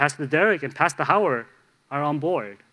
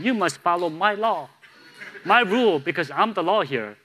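mock lawman; 4 semitones higher than usual. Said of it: "to teach the person a lesson saying".

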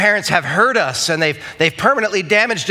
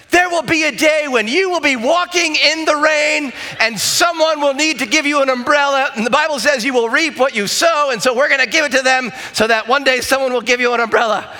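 yelling; 8 semitones higher than usual. Retold or imitated. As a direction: lecture the kids at full volume. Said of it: "I'm yelling at my kids saying".

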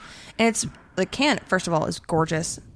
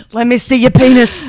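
mocking imitation; 3 semitones higher, 10 dB louder than usual. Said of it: "I don't say that".

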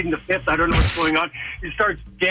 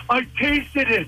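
high, slow retold horror; appalled punchline; 6 semitones higher, slower than usual. Buddy to driver, delivering the horrified punchline. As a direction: draw it out in mock disgust.

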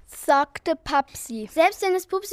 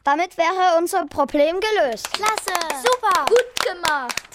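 begeistert; 4 semitones higher than usual. Acted. Mädchen jubeln über die Brücke.

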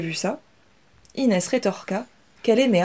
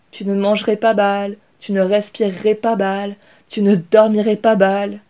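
imitating her brother; 7 dB louder than usual. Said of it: "l'imita-t-elle".

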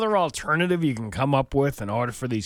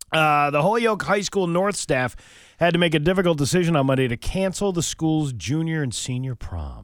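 louder opening of a news item; news read; 3 semitones higher, 4 dB louder than usual. Acted. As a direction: announce the next story firmly. Reads out a local news report.

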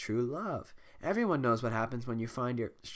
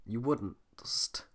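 whisper; slower than usual. Real, not acted. Reading a typo aloud.

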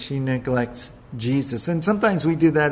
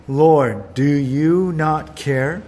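reproachful; 4 dB louder, much slower than usual. Retold or imitated. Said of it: "look what she said".

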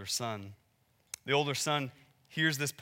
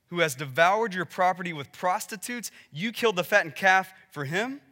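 bitter. Retold or imitated. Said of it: "Can't you just hear the bitterness in his voice".

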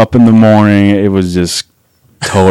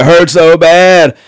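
higher, slow mock yell of pain; imitated yell; 8 semitones higher, much slower than usual. Injured friend yelling about his leg, mock yell. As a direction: yell it out, drawn slow and high. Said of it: "he's starting to yell it".

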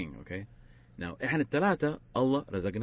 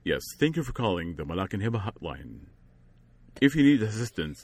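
customer service voice; 2 semitones lower than usual. Shown as a demonstration. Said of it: "It's like".

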